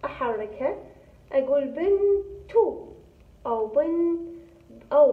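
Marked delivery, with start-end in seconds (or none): 1.3-2.9 بنتو with the final ت voiced as "tu", slow; vowelled ending. Shown as a demonstration. Teacher to pupils, showing the moving ta: slow and drawn out. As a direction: stretch out بنتو to show the vowel on the ta. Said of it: "إذا أحركها".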